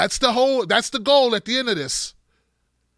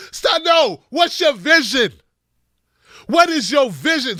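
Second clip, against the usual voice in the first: higher, louder, cutting in insistently; exasperated demand; 6 semitones higher, 4 dB louder than usual. Real, not acted. Host demanding a candidate's vision, exasperated. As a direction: break off the list and demand an answer.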